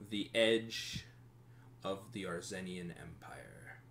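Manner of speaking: scene setting. Acted. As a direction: let it fall away softly at the end. Game master sets the scene.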